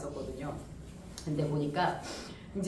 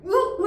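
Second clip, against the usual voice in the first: straining grunts; 11 semitones higher, 8 dB louder than usual. Retold or imitated. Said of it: "하는데".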